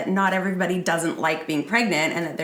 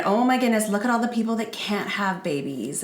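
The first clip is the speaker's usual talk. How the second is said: scolding voice; 3 semitones higher, 3 dB louder than usual. Retold or imitated. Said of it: "all these shoulds".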